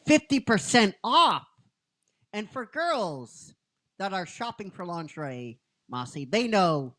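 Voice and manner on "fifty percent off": high loud delighted ooh; a shopper thrilled by a sale, squealing; excited shopper squeal. Retold or imitated. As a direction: squeal over a bargain. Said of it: "we can hear, you know, going".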